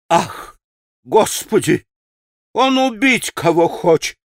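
high-pitched alarmed exclamation; испуганная Феня. A narrator's reading. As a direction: gasp it out in rising horror. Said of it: "всплеснула руками Феня". (испуганное причитание)

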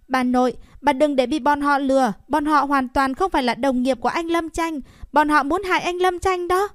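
put-on a boy crying out to warn his grandma; urgent boy. A narrator's reading.

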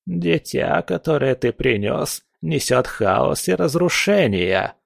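put-on slow, ominous old fortune teller; a lightly voiced old witch; old crone voice.

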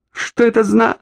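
high, cut-off furious demand; outraged question, cut short; furious start. A narrator's reading. Orlova, seized from behind, begins furiously. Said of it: "яростно начала Орлова".

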